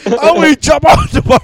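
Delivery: put-on goofy high-pitched parody of the kid; dumb kid voice. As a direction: squeak it out like a clueless teen. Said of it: "going like".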